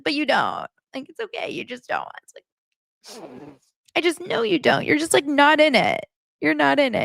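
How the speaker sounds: put-on high, pleading girlfriend whine; whiny Annie. Mocking Annie begging Nick to say he loves her, high whine. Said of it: "And she's like".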